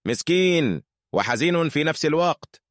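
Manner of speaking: synthetic AI voice, mock laugh then sad; text-to-speech robot lamenting. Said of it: "أنا روبوت".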